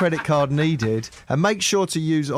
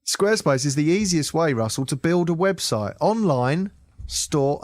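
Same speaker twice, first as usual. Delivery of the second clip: careful ad read in phone voice; telephone voice. Acted. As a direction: read it like a polite phone call. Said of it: "let's do this properly".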